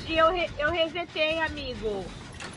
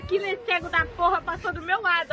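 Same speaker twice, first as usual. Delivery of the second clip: excited; 3 semitones higher, 4 dB louder than usual. Real, not acted. Killer walked past her.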